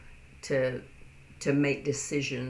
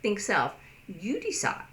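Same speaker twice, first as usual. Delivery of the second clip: casual offhand; 3 semitones higher than usual. Retold or imitated. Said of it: "And they go".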